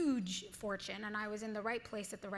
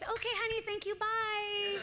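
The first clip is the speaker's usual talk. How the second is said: casting woman dismissing; 12 semitones higher, 4 dB louder than usual. Retold or imitated. Imitating the casting woman dismissing the teen actress. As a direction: dismiss her sweetly and coldly. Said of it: "And she goes".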